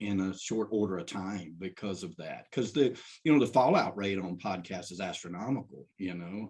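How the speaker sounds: ordinary talk, nothing marked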